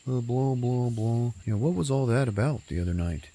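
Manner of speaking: breezy mock-casual question; mock dialogue. Friend recapping a movie, voicing a character mockingly.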